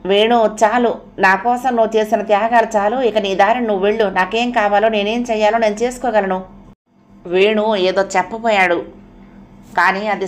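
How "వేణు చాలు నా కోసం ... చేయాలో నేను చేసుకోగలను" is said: fierce. Acted. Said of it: "అర్చన తీవ్రంగా అంది".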